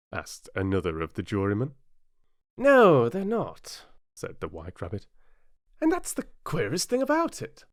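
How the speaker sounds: high, small rabbit voice; timid rabbit. A narrator's reading. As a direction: squeak it out nervously. White Rabbit reads paper.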